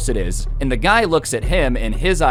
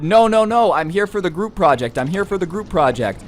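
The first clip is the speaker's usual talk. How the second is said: flustered, higher-pitched protest; imitating a bewildered kid explaining himself; insanely confused; 7 semitones higher than usual. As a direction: act out a friend confusedly insisting. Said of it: "my friend is insanely confused".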